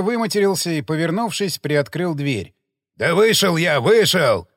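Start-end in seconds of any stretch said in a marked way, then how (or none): 3.0-4.5 loud bellow back through the door; roaring. Acted. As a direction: roar it at the nagging wife. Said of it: "проревел он". (рёв во весь голос)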